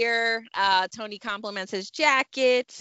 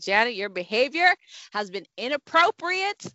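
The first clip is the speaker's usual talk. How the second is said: lightly acted proper reprimand, quick in places; a mildly hammed-up stern lecture at the dinner table; stern Carlton performance; faster than usual. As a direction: scold her primly like Carlton. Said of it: "I'm doing a whole performance in this car".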